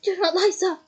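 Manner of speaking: loud angry shout. A narrator's reading. Mr Crouch shouting at Ron to not lie. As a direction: shout down the liar. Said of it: "shouted Mister Crouch".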